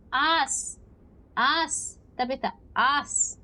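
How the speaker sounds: indignant shout at the ghost; shouted protest. Acted. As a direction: yell it back at her.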